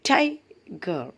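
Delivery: ടൈഗർ with ടൈ hit hard, ഗർ light; ടൈഗർ stressed at the start; first syllable stressed. Shown as a demonstration. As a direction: punch the ടൈ of ടൈഗർ. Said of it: "ടി വളരെയധികം stress ചെയ്തിട്ടും".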